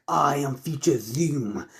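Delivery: Future Zoom. Acted. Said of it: "Future Zoom saying".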